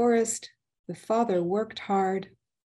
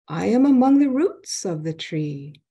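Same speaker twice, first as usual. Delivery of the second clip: screaming; 4 semitones higher, 4 dB louder than usual. Acted. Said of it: "he screamed".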